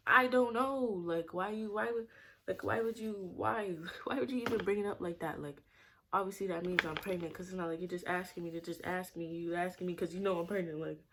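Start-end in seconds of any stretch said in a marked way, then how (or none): 0.1-5.4 retold indignant questioning. Retold confrontation with the nurse.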